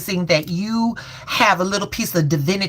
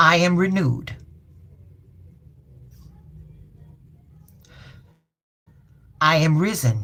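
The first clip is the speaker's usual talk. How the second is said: very slow, deliberately stretched, each word drawn out; 3 semitones lower than usual. Repeating an affirmation again for listeners, saying it very slowly. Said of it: "I'll do it real slow".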